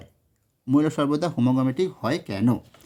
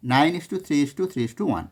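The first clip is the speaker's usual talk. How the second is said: slow dictation; much slower than usual. Shown as a demonstration. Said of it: "এটাই".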